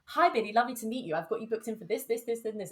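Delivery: brisk publicist voice. Retold or imitated. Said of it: "she came in and was just like".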